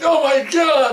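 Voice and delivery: high, loud horrified shout. Retold or imitated. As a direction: scream in horror at the bloody visor. Partner sees bloody helmet.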